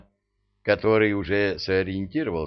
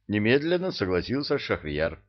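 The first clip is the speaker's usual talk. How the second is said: usual speaking voice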